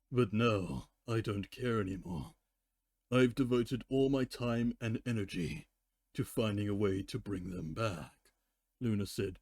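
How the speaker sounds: story reading with character voices; story narration. Acted. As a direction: narrate and voice the ponies by turns. Resumes fanfic reading.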